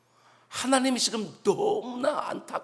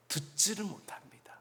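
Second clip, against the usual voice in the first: near-whisper, much softer; hushed emphasis; 10 dB quieter than usual. Real, not acted. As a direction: drop to a whisper for weight.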